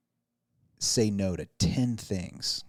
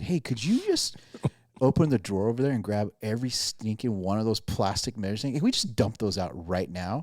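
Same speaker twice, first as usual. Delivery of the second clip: sarcastic. Retold or imitated. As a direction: retell a sarcastic suggestion to a wife. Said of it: "I said it just like that".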